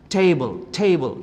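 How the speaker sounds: table with a strongly articulated t; vibrating makhraj. Shown as a demonstration. Teacher demonstrates table's correct makhraj, forcefully articulated. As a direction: make the t of table buzz with force. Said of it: "Kalau nggak getar, berarti makhrajnya salah".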